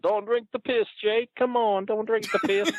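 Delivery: very high pleading falsetto; Honky Tonk Man. Retold or imitated. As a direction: plead with Jake in a squeaky mock voice. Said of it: "Honky Tonk's like".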